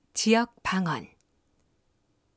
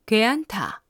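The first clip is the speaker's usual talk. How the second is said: Gyeongsang dialect. Shown as a demonstration. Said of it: "말할 때 억양과 말투에서".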